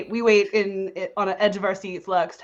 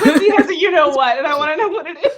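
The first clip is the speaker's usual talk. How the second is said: laughing; 7 semitones higher, 7 dB louder than usual. Real, not acted. Laughing excitedly at Quincy.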